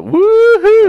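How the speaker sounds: high, loud country whoop; hillbilly woohoo. Pretend. Mocking the stepdad's twang, with a high loud hillbilly whoop. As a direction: whoop it like a redneck. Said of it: "he's got a little twang".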